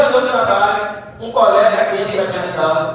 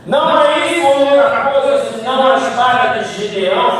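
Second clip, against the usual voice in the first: higher-pitched, forceful scripture declamation; impassioned preaching; 4 semitones higher, 3 dB louder than usual. Acted. Preacher quotes the soldier interpreting the dream, impassioned. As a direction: proclaim the verse with preaching fervour.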